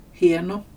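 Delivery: hieno with i sliding into e; gliding diphthong. Shown as a demonstration. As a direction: glide from i to e in hieno. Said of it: "den ena glider över i den andra".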